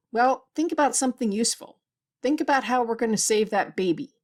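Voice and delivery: impatient, pressing order; irritated rebuke. Acted. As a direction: cut in with mild anger and urgency. Snaps at nurse, fist slammed.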